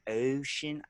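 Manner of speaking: OCEAN with a long, held-out O; held-out vowel. Shown as a demonstration. Showing a friend their own accent, held-out vowel. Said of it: "I hold it out".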